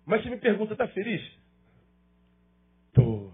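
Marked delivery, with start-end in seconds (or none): 2.9-3.3 heartfelt. Shown as a demonstration. Pastor showing his wife a tô full of feeling. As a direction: let tô carry real love, tenderly. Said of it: "olha a diferença do tô".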